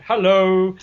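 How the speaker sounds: lightly hammed-up call to a passer-by; mock hailing. Policeman imitated greeting a man walking home, called out.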